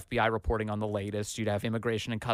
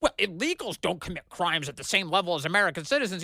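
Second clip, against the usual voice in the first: mocking quote; 5 semitones higher than usual. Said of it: "say things like".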